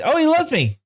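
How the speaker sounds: real happy squeal; delighted squeal. Real, not acted. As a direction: swoon over the horse. Delighted by the horse.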